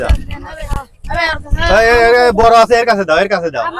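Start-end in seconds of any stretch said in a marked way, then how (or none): 1.8-3.6 loud call over the crowd; yelling across the room. Real, not acted. Handing out money to kids.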